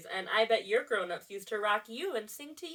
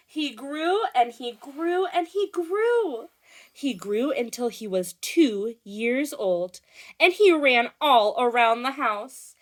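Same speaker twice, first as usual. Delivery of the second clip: loud, rising storybook excitement; animated read-aloud; 6 semitones higher, 9 dB louder than usual. A narrator's reading. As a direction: build the toddler chaos for young listeners. Reads story to children.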